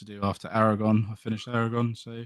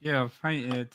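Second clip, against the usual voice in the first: mouth full; 3 semitones higher, slower than usual. Real, not acted. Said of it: "paintbrush in my mouth".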